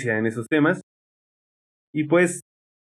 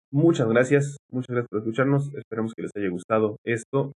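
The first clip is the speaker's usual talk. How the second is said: speaking with a numb mouth; words slurred by a numb, sleepy mouth; 3 dB quieter than usual. Real, not acted. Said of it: "tengo la boca dormida". (con la boca dormida)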